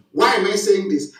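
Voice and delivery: normal talking voice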